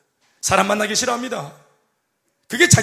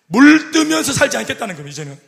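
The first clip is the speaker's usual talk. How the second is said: proclaiming; 2 semitones higher, 6 dB louder than usual. Real, not acted. Preacher proclaiming a turning point.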